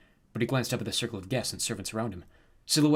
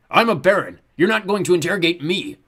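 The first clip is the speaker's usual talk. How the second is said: haughty baron; 8 semitones higher, 11 dB louder than usual. A narrator's reading. Haughty guest refusing guard.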